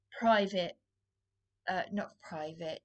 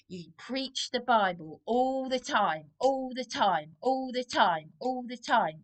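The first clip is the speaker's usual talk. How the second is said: louder, hammering each "all the time"; exasperated repetition; 4 semitones higher, 4 dB louder than usual. Real, not acted. Complaining that Darren always preaches at her: exasperated, insistent. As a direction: keep pounding the same phrase, fed up. Repeating accusation at partner.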